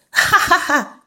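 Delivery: read-out laugh. A narrator's reading. Toby greets his friend on a new line, acted laugh. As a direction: voice a familiar friend's teasing laugh, lightly acted. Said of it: "And a familiar voice laughed".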